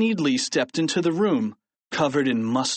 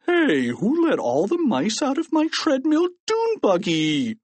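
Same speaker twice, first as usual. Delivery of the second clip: high, swooping indignant yell; outraged high-pitched cry; shouting; 12 semitones higher than usual. A narrator's reading. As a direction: holler the complaint across a room. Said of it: "with people shouting everything".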